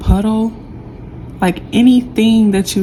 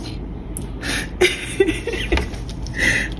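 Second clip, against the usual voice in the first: teary laugh; 12 semitones higher, 8 dB quieter than usual. Real, not acted. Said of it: "I'm really crying, guys".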